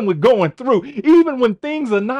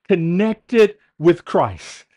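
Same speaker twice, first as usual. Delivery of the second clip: slow emphatic; 4 semitones lower, much slower than usual. Shown as a demonstration. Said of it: "Yes, connected with Christ".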